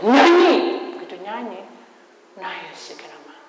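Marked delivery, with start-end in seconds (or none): 0.0-0.5 commanding. Retold or imitated. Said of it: "Tuhan berkata".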